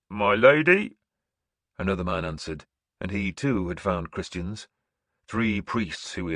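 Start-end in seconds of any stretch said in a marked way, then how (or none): 0.1-1.0 a touch higher, deferent man's voice; kneeling warrior. Acted. Warrior answering the seeress, deferent. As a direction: answer humbly.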